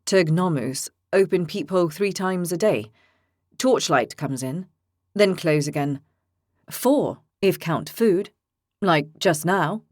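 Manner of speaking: slow, simple halting speech; broken-English prisoner. Acted. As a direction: speak in plain broken phrases.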